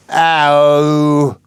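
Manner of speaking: high, loud Cockney "Ow!"; a pleased, surprised "Ow!" at the coin; delighted "Ow". Acted. Flower girl finding a half crown in her basket, surprised "Ow!". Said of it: "picking up a half crown".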